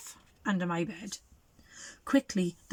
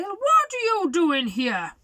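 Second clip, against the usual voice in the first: slow wolf voice; 8 semitones higher, 5 dB louder, slower than usual. Acted.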